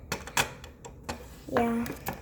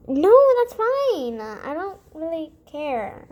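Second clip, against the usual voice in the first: forced casual; slower than usual. Acted. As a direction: brush it off too brightly. Forced nonchalance.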